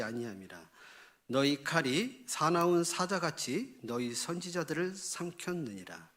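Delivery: measured, formal Bible reading; scripture reading. Acted. Pastor reading Jeremiah aloud to the congregation, scripture reading. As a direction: read the verses evenly and solemnly.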